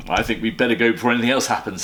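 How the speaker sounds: hurried Mr Brown. Acted. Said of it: "said Mister Brown".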